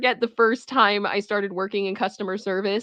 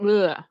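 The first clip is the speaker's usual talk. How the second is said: lazy slurred "ugh"; slurred mumble noise. Shown as a demonstration. Streamer showing how Toronto speech comes out, slurred mumble. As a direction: let it slop out unformed. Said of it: "It just kinda comes out".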